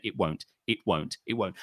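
low, quiet, deadpan refusals; flat stubborn refusal. Shown as a demonstration. Coaching the caller to stonewall, low deadpan refusal. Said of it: "you say".

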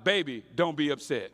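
sheepish dad pleading through a laugh; half-laughing plea to his wife. Retold or imitated. Bloody dad to his wife, laughing sheepish plea. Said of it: "he looks at his wife, my mom, like".

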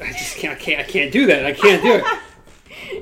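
words through real laughter; real laugh breaking into the words; laughing helplessly. Real, not acted. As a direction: giggle while protesting. Both crack up laughing.

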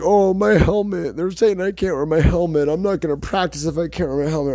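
high, loud, mocking diva whine; mock a pampered star complaining about his helmet; whiny diva impression. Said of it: "he's being a diva".

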